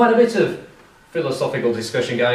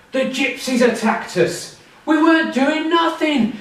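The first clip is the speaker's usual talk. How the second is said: whining liar; 6 semitones higher, 3 dB louder than usual. Retold or imitated. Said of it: "he goes to his dad, and he says".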